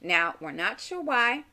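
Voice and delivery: normal talking voice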